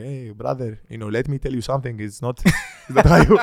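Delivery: lightly put-on European accent, laughing at the end. Showing how he talks to a European, with a mock European accent. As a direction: lean into a European accent, amused. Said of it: "I talk to somebody European".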